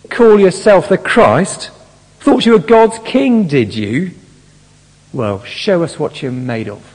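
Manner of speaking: loud, high sneering taunt; angry spitting sarcasm. Retold or imitated. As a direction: spit the words at him with scorn. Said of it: "this is angry, spitting sarcasm".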